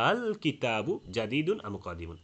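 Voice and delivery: আল with a firm first hamza and a light, half-blurred second one; slow recitation, easing the second hamza inside আল between a catch and a long vowel; tashil. Shown as a demonstration. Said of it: "দ্বিতীয় হামজাটা একটু হালকা করে".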